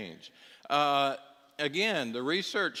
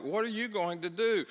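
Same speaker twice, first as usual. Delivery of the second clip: counselor's exasperation; 8 semitones higher than usual. Retold or imitated. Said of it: "And I'm like".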